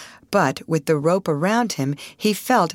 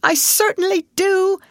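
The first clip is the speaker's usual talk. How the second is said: high, loud, insistent answer; emphatic confirmation; 5 dB louder than usual. A narrator's reading. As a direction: confirm it urgently and firmly. Steamer hand confirms the danger.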